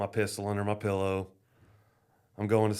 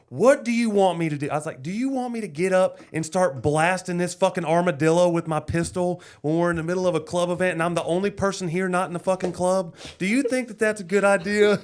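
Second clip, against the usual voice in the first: higher, louder, laughing rant; exasperated yelling; 9 semitones higher, 7 dB louder than usual. Retold or imitated. To his wife about the armadillo, exasperated laughing rant. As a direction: blow up half laughing at the absurd ask.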